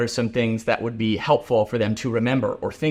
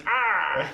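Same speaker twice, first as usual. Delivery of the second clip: drawn-out cartoon character "ah"; imitated cartoon cry, held out; Mister Krabs; 5 semitones higher than usual. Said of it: "Mister Krabs, which is".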